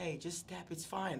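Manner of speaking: sweet, kindly, soft, very nice voice. Retelling what she told him after she almost broke his arm: imitating a very nice voice. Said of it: "she told me like with very nice voice".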